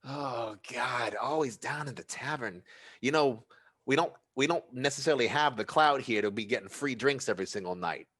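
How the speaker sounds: high, fast, loud grumble; grumbling Ratatat. Acted. Ratatat complaining about Hexus's tavern tab, high and grumbling.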